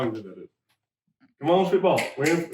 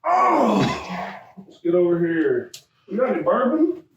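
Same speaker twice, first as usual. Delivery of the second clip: exaggerated cartoon intonation; 4 semitones higher than usual. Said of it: "Why are you talking like this?".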